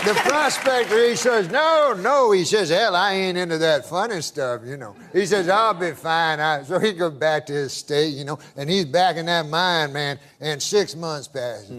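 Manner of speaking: lightly voiced country old-timer; hint of a Southern good old boy; good-old-boy storyteller. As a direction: spin it out as a folksy yarn. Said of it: "I can tell by the accent".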